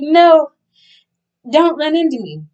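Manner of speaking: high, loud panicked yelp at the charging man; mock panicked cry. Bracing as the big guy barrels toward her, a high loud yelp. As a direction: squeal it like he's about to flatten you.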